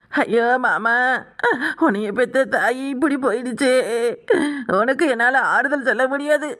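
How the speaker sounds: sobbing words of comfort; wailing condolence. Acted. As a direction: wail in sympathy, stretching each ending. Wailing condolence to bereaved man.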